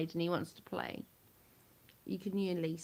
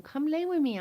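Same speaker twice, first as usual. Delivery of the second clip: niece's voice; 10 semitones higher, 9 dB louder than usual. Retold or imitated. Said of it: "she tells me on the phone".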